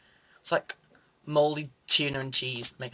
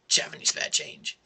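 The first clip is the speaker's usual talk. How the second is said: whispered repeat. Retold or imitated. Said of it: "if he asks it again".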